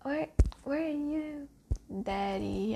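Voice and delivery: mild mock cry searching for a lost father; retold desperate calling. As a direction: call out into the empty cabin, lightly acted. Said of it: "he screamed".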